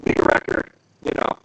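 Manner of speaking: robotic voice filter; glitchy robot voice. Real, not acted. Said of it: "you sound awful".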